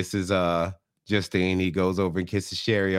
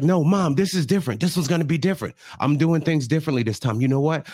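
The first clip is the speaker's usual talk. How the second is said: higher-pitched imitation of a pleading daughter; insistent pleading; 4 semitones higher, faster than usual. Daughter assuring her mom this time differs, insistent.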